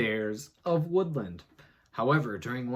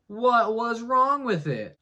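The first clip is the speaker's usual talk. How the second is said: dramatic teaser; 10 semitones higher, 7 dB louder, slower than usual. Acted.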